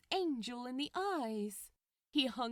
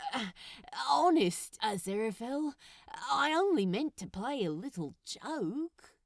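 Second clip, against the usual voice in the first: lame excuse; 2 semitones higher, 5 dB louder than usual. Acted. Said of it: "he trailed off, lamely".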